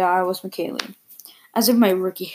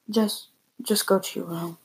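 confused; 5 dB quieter than usual. Acted. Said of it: "kinda confused".

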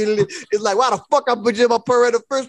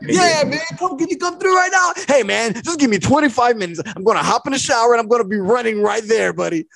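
eager godfather; 3 semitones higher than usual. Retold or imitated.

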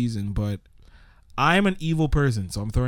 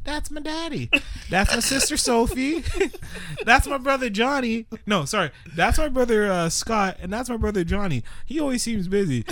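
lightly voiced little girl, a touch higher; 4 semitones higher than usual. Little girl introducing her family, lightly voiced child. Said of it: "She's like".

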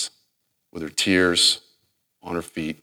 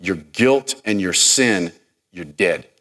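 prophetic warning; 2 semitones higher, 3 dB louder than usual. Acted.

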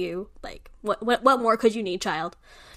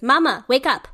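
loud, high mama wake up calls; mock toddler yell; 3 semitones higher, 4 dB louder than usual. Mom imitating her son yelling her awake, loud and high. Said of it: "yelling in my face".

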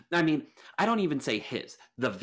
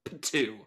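a light spitting noise; mild spitting. Acted. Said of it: "I spit on his grave".

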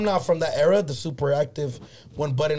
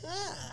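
mock high yelp; 13 dB quieter than usual. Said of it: "That was like".

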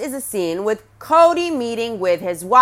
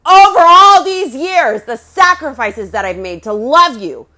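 retold scream; 3 semitones higher, 6 dB louder than usual. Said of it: "the way he is screaming".

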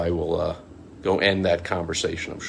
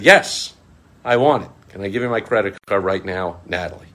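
mock eager; 5 dB louder than usual. Mock eager buyer again.

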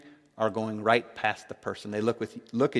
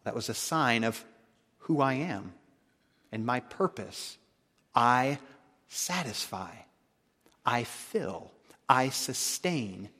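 tender Jesus voice; 5 dB quieter than usual. Acted. Voicing Jesus gently.

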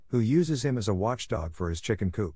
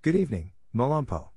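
higher, sweet weasel voice; 4 semitones higher than usual. A narrator's reading. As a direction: sweet-talk the watchdog. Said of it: "said in a sweet voice".

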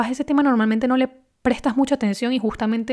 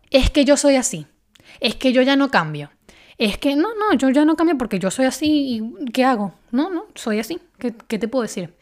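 stubborn self-talk; 4 semitones higher than usual. Retold or imitated. To listeners, mimicking a person stuck saying they can't change, mock whiny. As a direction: imitate someone who insists they can't change. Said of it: "te la pasas diciendo".

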